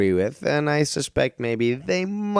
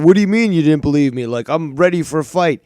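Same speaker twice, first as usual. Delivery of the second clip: hot-headed Danny; 6 dB louder than usual. Retold or imitated. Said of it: "Danny, always hot-headed".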